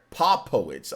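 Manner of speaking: Popowich as "POP-po-witch"; short vowel in the first syllable of Popowich, POP; corrected name pronunciation. Real, not acted. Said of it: "but no, it's Popowich".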